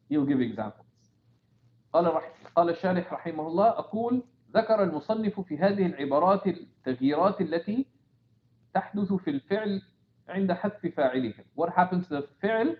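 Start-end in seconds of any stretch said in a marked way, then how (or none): 1.9-11.3 brisk, fast recitation of a scholarly text; fast traditional text reading; reading the classical text. Acted. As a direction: rattle off the commentary like a study-circle reading. Reads the commentary text aloud.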